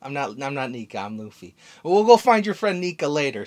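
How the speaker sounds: lightly voiced Luffy brushing it off; Luffy denying to Bonnie that he is Nika, carefree. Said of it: "And Luffy goes".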